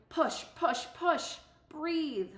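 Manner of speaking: high urgent calls of push; coaching shout. Retold or imitated. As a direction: bark encouragement at a runner. Coach yelling from sidelines.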